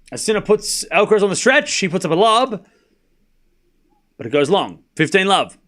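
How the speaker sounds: tennis commentary following the rally; live play-by-play. Real, not acted. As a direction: call the shot, then settle on the score.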